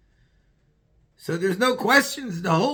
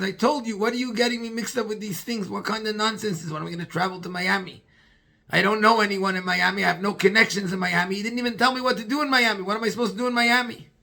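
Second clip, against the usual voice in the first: exasperated protest; 2 semitones higher, faster than usual. Retold or imitated. Man complains to Rabbi Chitrik, fast and indignant. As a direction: rant it, faster toward the end.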